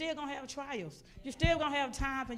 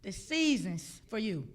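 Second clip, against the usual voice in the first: emphatic, loud promise in God's voice; God proclaiming a turnaround, preacher-style; 5 dB louder than usual. Retold or imitated. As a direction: declare it phrase by phrase with pauses. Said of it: "He said".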